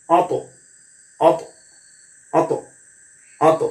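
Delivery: অত with the ত released in a short bounce; bounced qalqalah. Shown as a demonstration. Teacher drilling qalqalah on ত, bounced release. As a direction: pop the final ত of অত. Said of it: "ওরকম টেম দিতে হবে".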